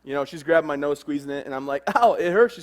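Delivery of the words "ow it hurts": mock pained yelp. Daughter squeezing his nose.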